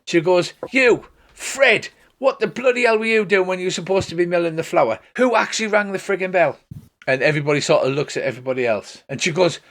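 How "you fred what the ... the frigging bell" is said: pitched-up scolding of one culprit; hammed-up irate demand; angry shouting. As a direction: call him out, acting cross. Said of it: "starts shouting at the top of her voice".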